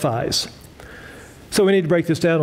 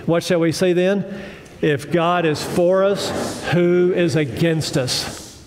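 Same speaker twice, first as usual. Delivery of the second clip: slow, measured recitation; leading group recitation; slower than usual. Real, not acted. Preacher has congregation say the verse with him, slow recitation. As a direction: lead them through it phrase by phrase, slowly. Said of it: "Say it with me".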